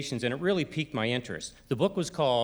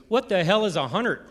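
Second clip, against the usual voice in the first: incredulous interruption; 5 semitones higher, 4 dB louder than usual. Retold or imitated. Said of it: "the guy stops me".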